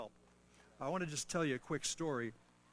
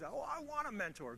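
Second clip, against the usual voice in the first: higher, lightly whining imitation; mock whiny plea; 8 semitones higher than usual. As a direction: parody the excuse with a little whine. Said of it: "I know this is always".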